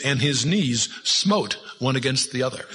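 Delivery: put-on slow, solemn old-English reading; preacher relishing a King James verse. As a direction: savour the King James words slowly. Reads King James aloud.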